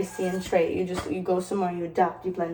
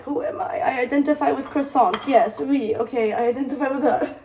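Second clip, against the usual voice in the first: playful self; 3 semitones higher, 4 dB louder than usual. Retold or imitated. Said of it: "And I'm like".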